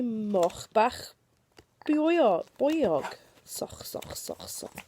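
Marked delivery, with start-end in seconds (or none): 3.5-4.8 unvoiced snuffly oinking; a whispered storybook pig noise; pig grunts. A narrator's reading. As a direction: snort it like a piglet. Pig noise in picture book.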